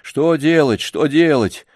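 lightly cross parroting of the question; angry mimicking. A narrator's reading. Boy mocking grandfather's helpless question, crossly. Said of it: "сердито передразнил его Сергей".

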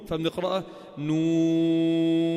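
نون read as three letters with a long held vowel; long nun. Shown as a demonstration. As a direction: chant نون slowly, holding the long vowel. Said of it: "حرف النون". (نون بمد طويل)

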